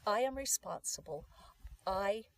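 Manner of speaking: firm, emphatic "I" opening the phrase; stress on I. Shown as a demonstration. Coach explains not being a victim, stressing "I". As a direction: put the weight on "I". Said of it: "the emphasis is on the I".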